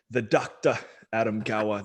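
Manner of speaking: a playful attempt at a posh English accent; mock English accent. Host introducing the guest with a mock English accent. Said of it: "That's my best English accent I could do".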